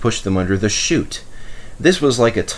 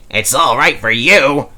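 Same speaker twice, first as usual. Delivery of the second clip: louder, fuming complaint; 5 semitones higher, 5 dB louder than usual. A narrator's reading. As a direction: fume at him. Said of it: "fumed Mike".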